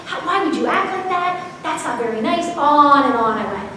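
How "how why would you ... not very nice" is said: scolding. Retold or imitated. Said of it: "I yelled at him".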